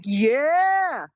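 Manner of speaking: delighted yeah. Retold or imitated. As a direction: cheer at her young body. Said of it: "I'm like".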